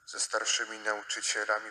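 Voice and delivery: usual speaking voice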